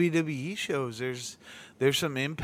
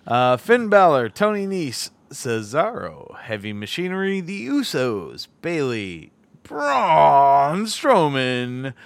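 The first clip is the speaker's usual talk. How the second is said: announcer voice. Pretend. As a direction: ring announcer calling the card. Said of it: "How's that for my announcer voice?".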